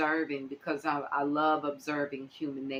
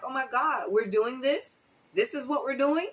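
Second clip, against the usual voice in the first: high-pitched, incredulous questioning; retold dismay; 8 semitones higher than usual. Vlogger recalling her first shock at these videos, dismayed disbelief. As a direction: replay your disbelief, voice climbing on each question. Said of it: "I was just devastated watching it".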